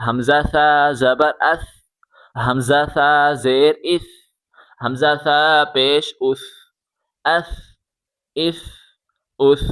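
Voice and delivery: "اس" ends in a soft th, tongue out; soft th sound closing each "اس"; soft lisped s. Shown as a demonstration. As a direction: say the "سا" and "اس" gently, tongue between the teeth. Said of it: "نرمی کے ساتھ پڑھیں، زبان باہر نکال کے".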